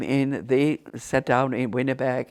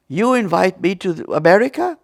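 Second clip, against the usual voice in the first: astonished; 7 semitones higher, 8 dB louder than usual. Retold or imitated. Architect astonished by the invitation.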